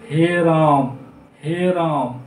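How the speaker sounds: हे राम and हे कृष्ण with the final vowels held long; prolonged pluta vowels. Shown as a demonstration. Teacher demonstrates pluta length, calling हे राम long. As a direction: call out हे राम, हे कृष्ण, stretching each call. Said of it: "इसमें और ज़्यादा समय लग रहा है".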